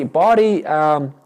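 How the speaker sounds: speaking as the body. Shown as a demonstration. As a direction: announce it as a demonstration, hesitating. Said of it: "why don't you speak as the body".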